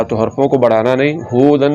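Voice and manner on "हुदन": हुदन with a long hoo; wrongly lengthened vowel. Shown as a demonstration. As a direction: stretch the हु in हुदन as the mistake. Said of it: "ये गलत है".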